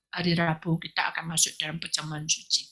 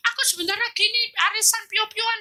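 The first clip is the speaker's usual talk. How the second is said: whiny begging prayer. Retold or imitated. Mocking selfish begging prayer.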